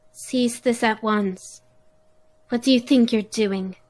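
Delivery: put-on very girlish voice. Voicing a prince who orders others to stop: very girly voice. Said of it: "You have a very girly voice".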